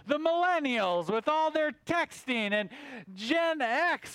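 a mildly put-on grumpy bug griping about everyone; ranting moth. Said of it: "He's like".

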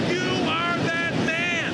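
high, loud and slow, each word hammered; accusing declaration. Acted. Nathan confronting King David, slow ringing accusation. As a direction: point the finger and nail him.

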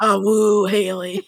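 wolf howl. Retold or imitated. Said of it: "doing the impression".

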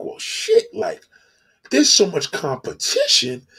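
hammed-up high, worried complaint; fretting woman. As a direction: voice a woman sizing up her rivals. Latin woman frets over rivals.

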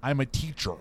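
mock British actor attempting an American accent; lightly botched American accent; British-man American accent. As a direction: put on a slightly off American accent. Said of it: "I'm a British man doing an American accent".

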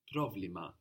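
πρόβλημα with β said as V; V sound. Shown as a demonstration. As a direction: say the β in πρόβλημα like English v. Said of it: "this gives us a V sound".

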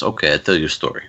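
put-on quick line in a rough Russian accent; bad Russian accent. Wrestler agreeing to tell his boss a story, bad Russian accent. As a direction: badly imitate a Russian accent. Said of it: "this is bad Russian accent".

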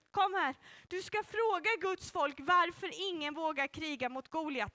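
ordinary delivery

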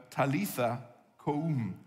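slow, gentle Aramaic words; tender, unhurried "Talitha koum". Shown as a demonstration. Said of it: "so tender, so gracious".

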